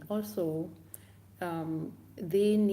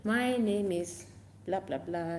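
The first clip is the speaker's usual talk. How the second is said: stretched, raised game call; shouting out. Shown as a demonstration. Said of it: "you have to shout out your name".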